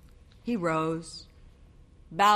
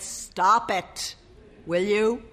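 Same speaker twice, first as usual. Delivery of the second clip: pleading husband; 4 semitones higher, slower than usual. A narrator's reading.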